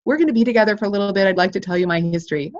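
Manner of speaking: rushed speech. Retold or imitated. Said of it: "You know how some people say".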